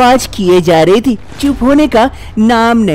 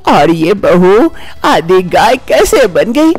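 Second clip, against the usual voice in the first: lightly voiced old woman, alarmed; astonished old mother-in-law; 2 semitones higher than usual. Mother-in-law tells her son about the baby, astonished. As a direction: gasp at the impossible birth.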